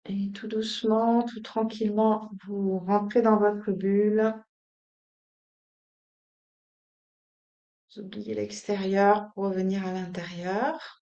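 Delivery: calm, unhurried instructions with long pauses; soothing yoga-teacher guidance; guided meditation. Acted. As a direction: settle them gently into stillness.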